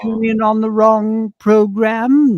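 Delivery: high, slow, drawn-out parent voice; puzzled parents. Acted. Parents phoning their son after missing him on TV, puzzled. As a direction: draw it out high like baffled parents on the phone. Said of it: "getting the phone calls, you know, from my parents".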